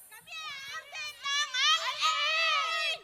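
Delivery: shouted cheer. Real, not acted. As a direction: yell it out as a team cheer. Team chant, shouted cheer.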